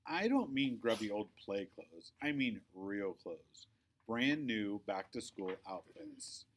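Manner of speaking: slow, exasperated explaining; weary sigh. Acted. Victoria losing patience with Quinny's clothes, slow exasperated sigh. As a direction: talk down with a tired sigh. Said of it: "Victoria sighs".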